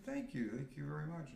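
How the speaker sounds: high-pitched mock-grateful thanks; retold thanks. Man retelling his thanks for a girl's compliment, high-pitched.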